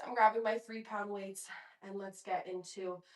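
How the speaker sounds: breathless from the workout; winded, talking between breaths. Real, not acted. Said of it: "I'm out of breath, you guys".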